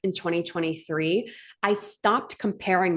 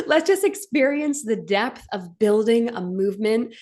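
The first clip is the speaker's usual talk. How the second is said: tearful voice. Real, not acted. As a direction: push through the tears to finish the thought. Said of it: "I'm crying".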